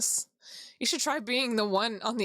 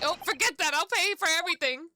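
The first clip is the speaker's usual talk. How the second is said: higher, lively imitated offer; mock eager offer; 4 semitones higher than usual. Player voicing Iris offering to pay, mock eager. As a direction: toss it out eagerly as a quote. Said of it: "Iris's dinner plate would be".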